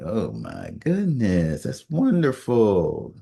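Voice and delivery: slow, drawn-out words of touched wonder; moved reaction. Retold or imitated. Reacting to a friend's tearful praise, moved and slow. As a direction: stretch it out, moved by what you've heard.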